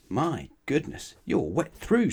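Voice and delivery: a shocked gasp of concern; surprised. Acted. Mister Strong shocked at wetness.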